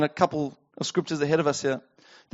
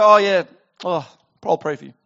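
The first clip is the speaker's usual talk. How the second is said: mock token sympathy. Believer brushing off someone in need, quick half-hearted sympathy. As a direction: toss off sympathy without meaning it. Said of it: "Not just go".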